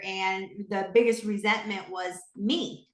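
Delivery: fighting back tears as she admits it; choked-up confession; tearful. Real, not acted. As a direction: voice catching with tears. Emotional confession, cry heard.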